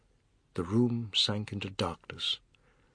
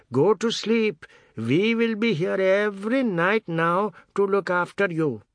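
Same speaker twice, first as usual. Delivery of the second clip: mocking menace; 9 semitones higher, 5 dB louder than usual. Dari taunts menacingly.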